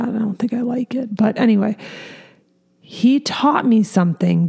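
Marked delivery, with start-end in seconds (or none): 0.0-1.2 breathy unvoiced whisper, much softer; whispered aside. Real, not acted. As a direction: drop to a private whisper to someone nearby.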